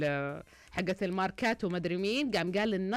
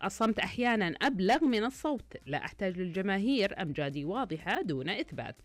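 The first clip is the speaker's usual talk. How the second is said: dramatic riddle read. Acted. Host poses the bird riddle to listeners, dramatic read. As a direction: read it like a proud mystery.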